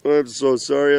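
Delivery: a touch of held-back tears, still steady; a father's earnest plea, lightly choked up; emotional. Real, not acted. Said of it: "I'm so emotional".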